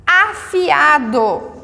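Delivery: a-fi-a-do, slow and separated by syllable; syllables split. Shown as a demonstration. Teacher spells out syllables for class, slow and separated. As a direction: say Afiado slowly, splitting fi from a. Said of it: "Sílabas diferentes, o I e o A".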